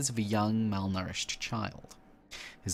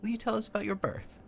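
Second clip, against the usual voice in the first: higher, curious cultist woman voice; eager cultist; 14 semitones higher, faster than usual. Acted. Cultist woman asking the vessel about its birth, higher and eager. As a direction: ask it with eager wonder.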